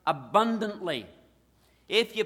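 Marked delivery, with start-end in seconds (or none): 0.1-1.1 "abundantly" set apart and punched on BUN; stress on abundantly. Shown as a demonstration. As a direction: lean on the word "abundantly". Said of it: "put the emphasis not on entrance".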